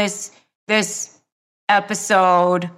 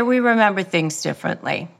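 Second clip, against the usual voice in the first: calm, no emotion; faster than usual. Shown as a demonstration. Calm reply to a gaslighting partner, even and unemotional. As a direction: state it flatly calm, never raising your voice. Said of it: "Never put your emotion into it".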